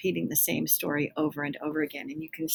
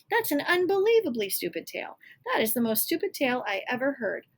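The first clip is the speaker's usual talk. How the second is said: rising higher with each insult; mock it more and more; building scorn; 5 semitones higher than usual. Jack mocks the giant's story.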